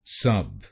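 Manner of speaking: सब said on its own, short and clear; syllable demo. Shown as a demonstration. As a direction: isolate the first syllable सब. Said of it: "एसयूबी को बोलिए सब".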